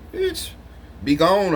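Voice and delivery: high, loud mock shout of dismissal. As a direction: fling it off with a sudden high yell. Dismissive dream quote.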